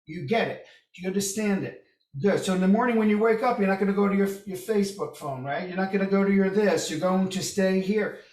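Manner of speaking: pleading preacher. Retold or imitated. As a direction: beg the audience to get it, rising and loud. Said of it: "And he's begging them".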